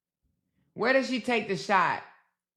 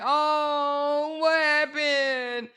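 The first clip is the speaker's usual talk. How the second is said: drawn-out, higher-pitched mock wail; mock crying; 6 semitones higher, much slower than usual. Host mimicking the sadness haters want from her, mock crying. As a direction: stretch it into a pitiful put-on moan. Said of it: "They want her crying".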